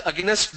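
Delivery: against said as "aginest"; regional mispronunciation. Shown as a demonstration. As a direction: slip an extra vowel into against before the st. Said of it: "they pronounce that as".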